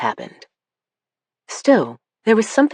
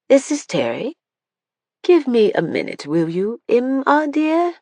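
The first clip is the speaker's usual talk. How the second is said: replayed Alcott phone line; 8 semitones higher than usual. A narrator's reading. Replayed recording again.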